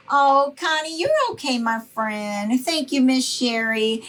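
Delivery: high, bright-pitched hello to a viewer; light up calling a friend's name; squealing hello to Connie; excited greeting. Real, not acted.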